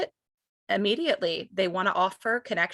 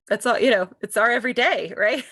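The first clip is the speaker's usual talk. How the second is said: louder, insistent inner reply; emphatic retort; 2 semitones higher, 6 dB louder, faster than usual. Retold or imitated. Mother answering hesitant friends, raised insistent voice. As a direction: push back hard, it's daily life. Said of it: "And I'm thinking".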